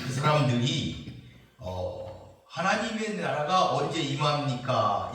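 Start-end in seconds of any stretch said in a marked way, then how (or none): 2.5-5.1 mock-courteous formal question; acting out a respectful inquiry; polite question. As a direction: ask it with measured deference. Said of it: "이렇게 굉장히 공손하게 물은 게".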